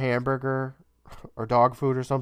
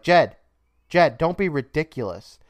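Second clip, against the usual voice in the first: louder, higher exasperated name-call; mock motherly scolding; 4 semitones higher, 5 dB louder than usual. Mom hearing Jed's wild story, mock scolding. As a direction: imitate a mom dismissing her kid's nonsense.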